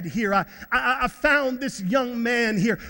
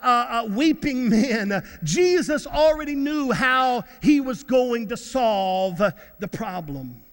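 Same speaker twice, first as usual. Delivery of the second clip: emphatic preacher with stretched key words; impassioned preaching. Real, not acted. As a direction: proclaim it to a congregation. Preaching to the congregation.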